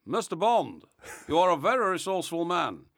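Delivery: lightly voiced villain; a restrained first try at the arch-villain; understated master villain impression; Goldfinger. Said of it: "that's not good enough".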